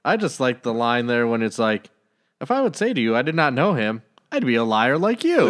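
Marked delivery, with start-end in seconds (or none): 2.4-5.5 higher, punchy retort aimed right at them; sassy comeback. Retold or imitated. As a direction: fire the line back like a cheeky put-down. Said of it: "Jesus just giving it right at him".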